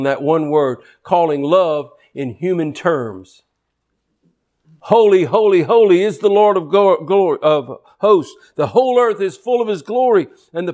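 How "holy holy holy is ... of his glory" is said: seraphim cry. Acted. Quoting seraphim with force.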